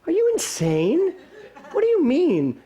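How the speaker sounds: retelling his shocked reaction to the vine climb, high and laughing; incredulous. Retold or imitated. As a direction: squeal in mock horror at the climb. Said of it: "and I'm like".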